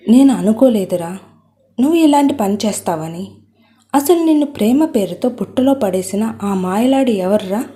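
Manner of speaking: mild angry scolding, pace picking up; a hint of a furious mother. Mother scolding her son about his lover, mildly angry. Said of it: "అంటూ కోపంతో ఊగిపోతూ అంటుంది వరలక్ష్మి".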